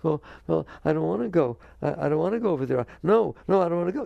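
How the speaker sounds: acted ego refusing to budge; complaining ego. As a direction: dig in like a reluctant child. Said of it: "your ego every single time it opens its mouth".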